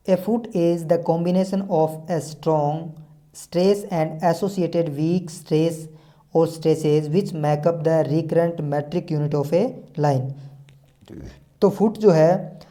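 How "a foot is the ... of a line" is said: reads the definition word by word, very slowly; slow dictation reading. Acted. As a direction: spell it out for note-taking, one word at a time.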